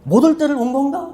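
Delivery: retold weeping, understated; mock tearful. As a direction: imitate someone tearfully questioning himself. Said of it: "막 울면서 얘기하는 거예요".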